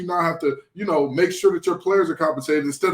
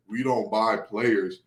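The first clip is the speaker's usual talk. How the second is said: low, soft, slow drawn-out mimicry; mock quote; 6 semitones lower, 5 dB quieter, slower than usual. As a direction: quote the school slowly under your breath, lower and softer. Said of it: "are the school to say".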